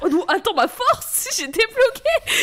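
high, giggling through the words; laughing. Real, not acted. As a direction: talk while cracking up. Laughing at her own story.

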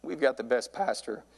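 real, halting emotion; choked up. Real, not acted. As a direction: hold back tears, pausing between phrases. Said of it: "I'm already getting choked up".

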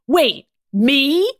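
high, rising disbelief; shocked exclamation. A narrator's reading. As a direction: ask it in shock, voice jumping up. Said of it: "gasped in shock".

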